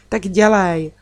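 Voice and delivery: mildly impatient hurry-up; big sister rushing her small brother impatiently; impatient call. Acted. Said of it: "křikla jsem na něj netrpělivě".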